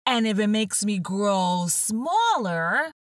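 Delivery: Alice talking herself into it; young Alice reasoning. Acted.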